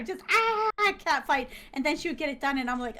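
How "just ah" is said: high mock scream; drawn-out high "ah" of a squabble; imitated catfight scream. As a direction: mimic a catfight shriek. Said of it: "they started yelling at each other".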